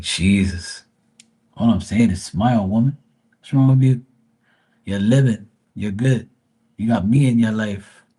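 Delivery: loud teasing protest, pushed up; teasing shout. Retold or imitated. Teasing his mom, he raises his voice in mock exasperation.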